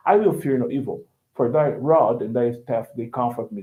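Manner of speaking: British recitation, dropping Rs; British non-rhotic accent. Shown as a demonstration. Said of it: "British people ... But when they say".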